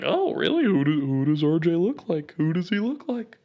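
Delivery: high, loud imitation of excited questioning; hammed-up excited curiosity; mock eager crowd. Acting out everyone's eager questions.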